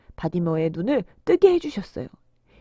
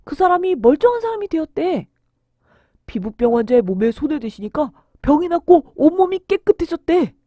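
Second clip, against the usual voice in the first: excited hearsay; 3 semitones higher, 5 dB louder than usual. Acted. Excited villagers passing on miracle news.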